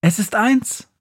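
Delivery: put-on high, lively old witch. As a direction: play the Christmas witch, bright and quick. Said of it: "sagt Befana".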